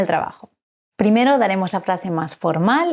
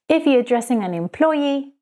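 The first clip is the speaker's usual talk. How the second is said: usual speaking voice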